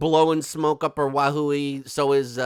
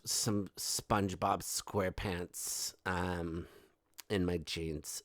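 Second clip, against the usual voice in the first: soft, breathy-sounding mock socialite voice, much quieter; mocking Meghan; 5 semitones lower, 6 dB quieter than usual. Host mocking Meghan pitching her jeans line, hushed mock voice. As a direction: purr it out like a vain celebrity gushing about herself. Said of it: "She's gonna be like".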